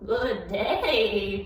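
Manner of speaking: lightly voiced goat, half laughing; pleading goat. A narrator's reading. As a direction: beg politely in a goat voice. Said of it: "pleaded the goat".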